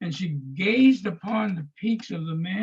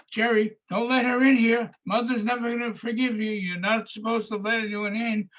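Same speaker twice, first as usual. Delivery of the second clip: higher, frantic retelling of a wild outburst; carrying on wildly; 5 semitones higher than usual. Retold or imitated. Edie at the window warning Jerry off, frantic and pitched up. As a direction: imitate her carrying on, pitched up and urgent. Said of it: "was carrying on like a wild person".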